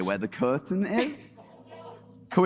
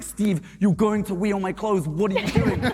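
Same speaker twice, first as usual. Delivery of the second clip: mild mock yell, raised pitch; retold scream; 5 semitones higher than usual. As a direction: scold the drunk roommate in a half-hearted scream. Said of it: "I'm screaming in his face".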